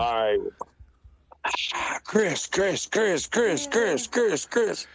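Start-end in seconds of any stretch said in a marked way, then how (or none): 1.7-4.9 high breathy fangirl chant; swooning fan. Pretend. Fan swooning over Chris, high fangirl chant. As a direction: coo his name like a starstruck fan.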